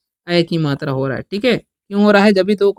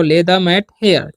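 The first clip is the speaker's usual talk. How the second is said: slow dictation; much slower than usual. Shown as a demonstration. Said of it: "यहाँ चटाई बिछाओ".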